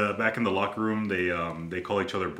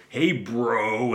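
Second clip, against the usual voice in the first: loud, higher-pitched Long Island greeting; Long Island accent; 5 semitones higher, 6 dB louder than usual. Retold or imitated. Writer greets his podcast listeners, heavy Long Island accent. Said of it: "he has this really strong Long Island accent".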